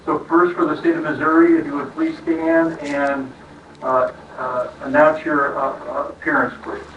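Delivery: muffled behind a face mask; through a face mask. Real, not acted. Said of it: "difficult speaking through masks".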